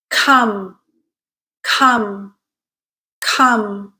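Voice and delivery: each word from "rung" to "Come" said alone, falling, with a stressed uh; careful word-list model, stressed uh in every word; stressed uh drill. Shown as a demonstration. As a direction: say each word separately with a falling tone for learners to copy. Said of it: "all of these words do have the stressed uh".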